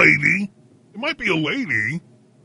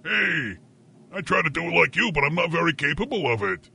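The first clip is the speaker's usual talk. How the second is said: quick mimicry of the cohost; mocking imitation; 2 semitones higher than usual. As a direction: parrot his excuse back at him. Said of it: "when somebody pretends to be you".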